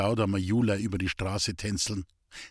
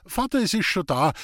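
calling out; 6 semitones higher, 3 dB louder than usual. A narrator's reading. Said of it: "rief Jula und kicherte lustig".

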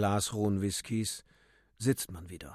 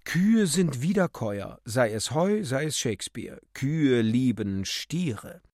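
contemptuous; 4 dB louder than usual. Acted. Euphemia pronounces her scornful verdict on the actress. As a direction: pronounce it as an absolute, sneering rule. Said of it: "sagte verächtlich apodiktisch".

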